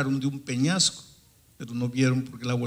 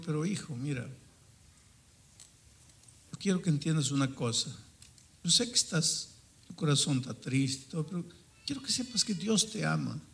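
softer, fatherly reasoning; gentle appeal; 3 semitones higher, 4 dB quieter than usual. Retold or imitated. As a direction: appeal softly to a troubled son. Pastor acercándose con cariño al joven. (súplica suave y paternal)

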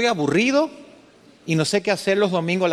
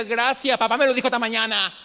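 lightly voiced confident daughter; 5 semitones higher than usual. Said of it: "le diga".

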